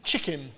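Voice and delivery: chicken said low and slow, savouring it; chicken, low and falling; savoured word. Shown as a demonstration. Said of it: "quite a nice word to say".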